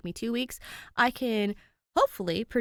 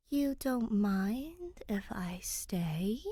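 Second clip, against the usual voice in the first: 1 hesitant question; 2 semitones higher, much slower than usual. Acted. Danny asks the ghost, unsure.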